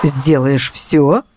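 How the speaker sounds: very slow, creaking and oily; greasy creak. Acted. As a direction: draw it out in a sleazy creak. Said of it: "проскрипел сальный голос таксиста". (сальный скрипучий голос)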